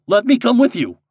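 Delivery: high, loud plea; crying out. A narrator's reading. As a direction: call out to someone getting away. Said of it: "cried Mister Kravitz".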